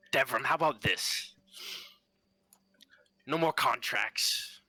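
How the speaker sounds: lightly voiced sweet, sinister father; a hint of a sinister sweet spirit. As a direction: coax him with sinister sweetness. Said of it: "sweet, kinda sinister tone".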